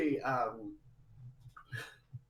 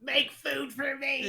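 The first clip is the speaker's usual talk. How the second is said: mock demanding boyfriend; 7 dB louder, much slower than usual.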